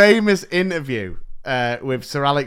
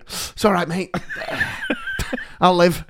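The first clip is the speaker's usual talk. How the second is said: laughing it off; 3 semitones higher than usual. Retold or imitated. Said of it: "I went".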